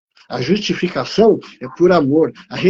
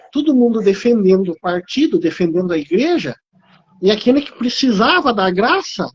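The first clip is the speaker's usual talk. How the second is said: a mother's raised, pleading cry to God, a bit higher; 5 semitones higher than usual. Retold or imitated. Mother in a vision pleading with the Lord for her son, raised and pleading. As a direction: plead upward like a mother begging for the lost.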